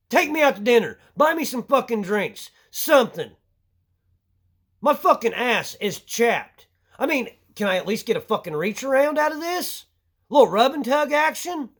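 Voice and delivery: high, mocking sarcastic plea; mock the lender, pitch up.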